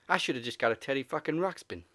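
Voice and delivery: lightly imitated movie-star delivery; Mark Wahlberg. Podcaster quoting a favorite movie line, light impression. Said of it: "Mark Wahlberg's best deliveries".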